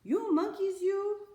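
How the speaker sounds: high, loud scolding at the monkeys; scolding peddler. Acted. Peddler scolding the thieving monkeys, high and loud. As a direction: wag a finger and scold them. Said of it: "he said, shaking a finger".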